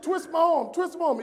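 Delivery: urgent plea. Retold or imitated. Injured speaker instructs client.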